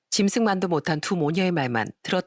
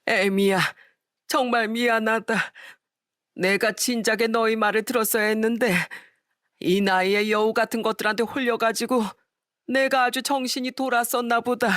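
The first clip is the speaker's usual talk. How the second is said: put-on higher, regretful old man's apology; remorseful old father; 4 semitones higher than usual. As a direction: apologize to daughter-in-law in shame.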